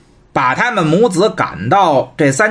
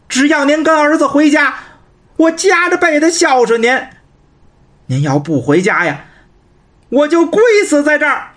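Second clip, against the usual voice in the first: much higher, urgent begging son; pleading son; 6 semitones higher than usual. Acted. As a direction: beg his mother at high pitch, almost crying out. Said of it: "在外边大声就说". (高声哀求的儿子)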